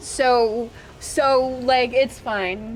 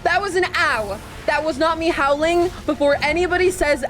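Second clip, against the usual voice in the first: defensive protest; 4 semitones higher than usual. Real, not acted. Protesting teasing about a howl.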